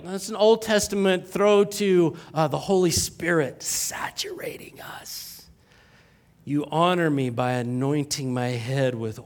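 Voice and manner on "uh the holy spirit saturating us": whispered aside. Real, not acted. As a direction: hush it to a whisper. Aside after the verse.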